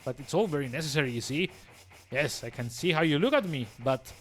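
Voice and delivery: a bored, superior villain gloating. Acted. Reads villain dialogue aloud.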